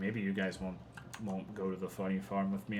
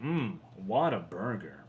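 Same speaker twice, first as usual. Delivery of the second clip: savoring food; slower than usual. Shown as a demonstration. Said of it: "you're supposed to go like".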